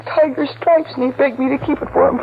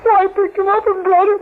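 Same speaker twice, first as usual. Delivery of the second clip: grieving, holding back sobs; tearful; 3 semitones higher than usual. Acted. Sister tells cop about brother's killer.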